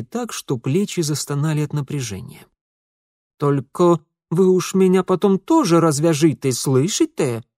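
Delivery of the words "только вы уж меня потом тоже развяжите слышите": wary reminder. A narrator's reading. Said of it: "настороженно напомнил Ингвар".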